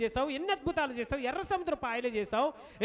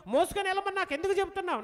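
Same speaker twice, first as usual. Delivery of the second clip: fast exasperated ఎందుకు; exasperated plea; 5 semitones higher, faster than usual. Acted. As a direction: rush the question ఎందుకు చెబుతున్నావు, pushing ఎందుకు up. Moses' complaint, repeated stronger.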